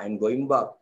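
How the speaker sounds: "back" said with an open Filipino a, like bak, in a Filipino accent; a Filipino accent on "I'm going back", the vowel of back flat. Shown as a demonstration. Teacher showing students a Filipino accent on "back". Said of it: "orang Filipin cakap".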